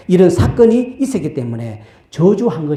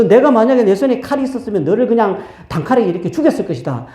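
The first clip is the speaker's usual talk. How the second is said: higher, fast angry threat; 6 semitones higher, faster than usual. Acted. Balaam threatening the donkey he would kill it, angry. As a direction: spit the threat out quickly. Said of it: "그러면서 화를 내는 거예요".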